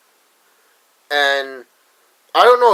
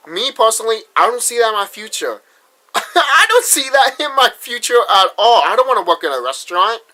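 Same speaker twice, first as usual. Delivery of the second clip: higher, louder, laughing it off; laughing scorn; 8 semitones higher, 5 dB louder than usual. Real, not acted. Vlogger laughing off the restaurant job, higher and louder. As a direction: scoff and laugh at the idea.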